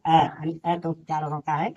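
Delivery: the vowel "अ" said short and plain; sound of अ. Shown as a demonstration. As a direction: model "अ" for the class. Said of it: "ई को क्या पढ़ते हैं". (अ की छोटी ध्वनि)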